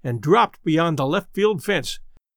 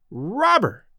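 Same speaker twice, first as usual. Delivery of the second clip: mock bawl; 3 semitones higher than usual. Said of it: "bawled Red".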